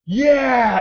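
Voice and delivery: high, drawn-out mock cheer; retold eager yes. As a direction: imitate someone suddenly won over. Retold sudden eager agreement.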